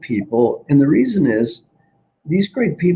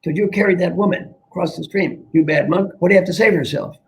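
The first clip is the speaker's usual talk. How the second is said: higher, accusing monk voice; mock angry scolding; 5 semitones higher, faster than usual. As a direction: pin the blame on him, playfully.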